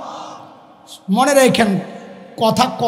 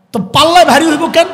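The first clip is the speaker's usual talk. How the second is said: fast, loud, high challenge; raised question; 5 semitones higher, 7 dB louder, faster than usual. Real, not acted. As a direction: fire the question at them. Repeats the challenge.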